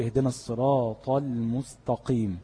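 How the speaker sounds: الصراط المستقيم read with the ط and ت mixed up, a mistaken recitation; reading المستقيم with a heavy ط, the wrong way; wrong emphatic letter. Shown as a demonstration. Teacher shows students a common recitation mistake. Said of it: "زي مثلًا واحد يقول".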